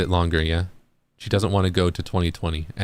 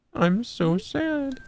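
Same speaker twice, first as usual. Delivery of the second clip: mock sad; 4 dB quieter, much slower than usual. Playful voiced mood lines.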